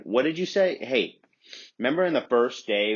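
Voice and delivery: mock sass at teacher. Talking back to teacher.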